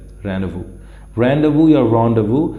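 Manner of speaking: rendezvous with no z sound, ron-day-voo, slowly; silent z demo. Shown as a demonstration. Teacher explaining the silent z to students, slow and careful. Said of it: "ये एक तरह से silent है".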